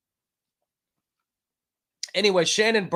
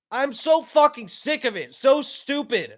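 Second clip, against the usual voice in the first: screaming; 8 semitones higher than usual. Real, not acted. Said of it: "I'm sorry I'm screaming".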